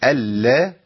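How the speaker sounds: ألا with the lam held doubled; doubled lam demo. Shown as a demonstration. Sheikh modelling doubled lam ألا. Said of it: "المشددة بفتح".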